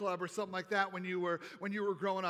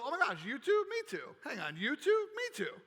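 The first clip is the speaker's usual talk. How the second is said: Me too squeaked much higher; light up at finding a kindred soul; excited recognition; 5 semitones higher than usual. Retold or imitated. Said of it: "moments where we go".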